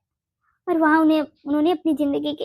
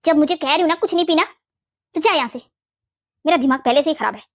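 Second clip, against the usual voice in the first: quick-fire, fed-up mother-in-law; irritated scolding; faster than usual. Acted. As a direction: snap at her to leave, patience gone. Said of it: "गुस्सा आ रहा है ना". (गुस्से में झिड़कते हुए)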